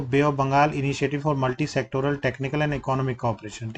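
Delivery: slow, word by word full form; slow dictation. Shown as a demonstration. Teacher reading the full form to class, slow and deliberate. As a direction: spell it out slowly for students to note. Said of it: "पूर्ण रूप अभी मैंने बताया था".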